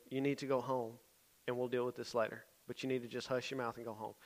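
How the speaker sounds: softly voiced firm order; quiet, contained scolding in a retelling; low in his ear. Youth leader in a kid's ear after an argument, low and firm. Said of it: "got in his ear".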